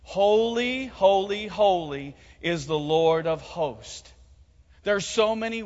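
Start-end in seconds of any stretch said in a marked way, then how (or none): 0.0-4.1 said together on three. Real, not acted. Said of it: "say that with me on three".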